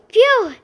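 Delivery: loud, high "phew" of relief; gasped phew. A narrator's reading. Nick after putting out the fire, gasped phew. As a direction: let out a voiced phew. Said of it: "Nick gasped".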